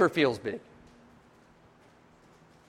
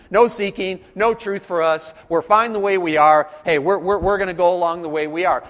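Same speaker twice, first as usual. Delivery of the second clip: smug mock voice; 4 dB louder than usual. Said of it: "That was their attitude".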